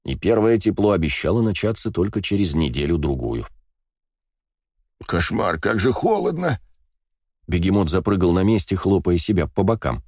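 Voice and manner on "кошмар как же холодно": озябший вопль. Acted. Бегемот мёрзнет на перроне.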